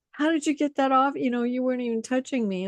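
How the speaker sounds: high, fast astonished questions; amazed sceptic. Retold or imitated. Sceptic amazed by a magician's trick, fast astonished. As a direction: gasp it out in disbelief.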